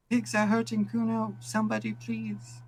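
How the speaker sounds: very high, loud, wailing plea; full blast screaming. Acted. Kid screaming across Martinez at full blast, wailing plea. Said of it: "It's full blast now".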